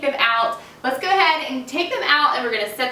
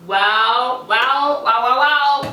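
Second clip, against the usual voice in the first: excited; 4 dB louder, much slower than usual. Real, not acted. Seeing the cake come out.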